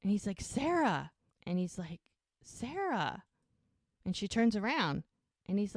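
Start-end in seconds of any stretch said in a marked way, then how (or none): 0.4-1.1 mock call after someone, high and louder. Retold man calling after her. 2.4-3.2 calling out. Retold or imitated. Retold man calling her again.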